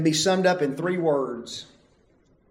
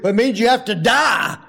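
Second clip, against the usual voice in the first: emphatic answer; 6 semitones higher, 5 dB louder than usual. Retold or imitated. Answering the kid in story.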